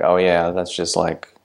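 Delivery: trailing off into a breathy half-whisper; muttered brush-off, dropping to a whisper; dismissive mumble. Retold or imitated. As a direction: shrug it off, fading to nothing. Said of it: "you're like".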